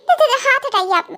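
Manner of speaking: put-on high girl's voice tripping on words; frightened stammer. Kookie asks him to remove his hand, frightened stammer. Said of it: "तुम इतना डर क्यों रही हो".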